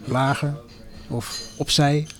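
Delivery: understated quiet command; narrated whisper. A narrator's reading. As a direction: murmur brief instructions while narrating. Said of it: "Zo nu en dan fluisterde hij".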